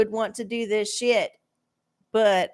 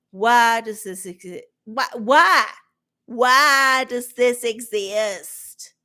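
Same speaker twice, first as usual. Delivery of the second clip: exasperated why; 4 dB louder, slower than usual. Real, not acted. Exasperated at submersible tourism.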